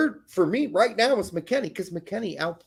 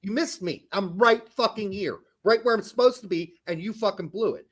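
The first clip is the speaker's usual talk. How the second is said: raised mock shout for the ball, then grumbling; calling for the ball. Open striker shouting at a teammate for the ball, mock yell. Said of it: "He's doing the whole".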